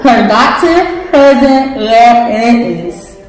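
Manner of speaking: talking around a mouthpiece; wearing a mouthguard. Real, not acted. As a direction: read it with a mouthguard in. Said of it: "the person with the mouthpiece in reads a card".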